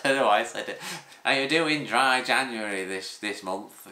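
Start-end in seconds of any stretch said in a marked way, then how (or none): 1.2-3.9 an odd, slowed voice for the barber, lightly done; put-on barber voice. Barber asking the speaker about dry January, mock put-on voice. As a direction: mimic the barber with a silly unplanned voice. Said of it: "he doesn't talk like that".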